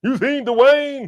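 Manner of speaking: put-on slow, high Boston accent drawl. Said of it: "Did she have a Boston accent".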